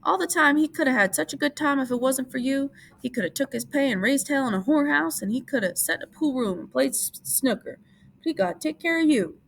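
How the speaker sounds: high, scolding aunt voice; berating aunt. A narrator's reading. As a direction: berate him like a fed-up aunt. Aunt Clara berates Lenny.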